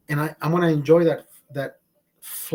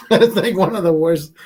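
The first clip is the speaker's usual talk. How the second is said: laughing; 7 dB louder than usual. Real, not acted. Laughing while speaking.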